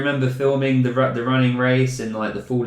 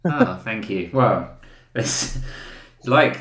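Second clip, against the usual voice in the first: ordinary delivery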